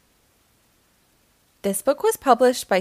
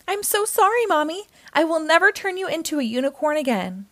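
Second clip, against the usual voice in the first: put-on high, fast child's apology; child apologizing to mom; sorry child; 4 semitones higher, faster than usual. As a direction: gush it out like a sorry kid.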